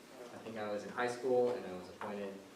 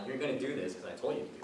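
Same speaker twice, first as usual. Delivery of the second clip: quick, higher-pitched mock firmness; firm teacher; 4 semitones higher, faster than usual. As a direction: imitate a teacher laying down the law, fast. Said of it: "I just had a more firm attitude".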